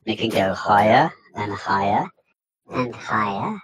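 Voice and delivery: pitch shifter. Shown as a demonstration. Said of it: "this one is a pitch shifter".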